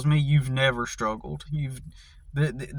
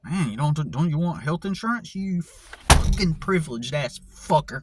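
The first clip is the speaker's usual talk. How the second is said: mocking manager. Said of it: "had the manager be like".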